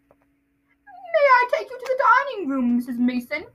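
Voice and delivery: put-on high, slow, loud boy voice; Dudley. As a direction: recite it with fake politeness. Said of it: "that's Dudley".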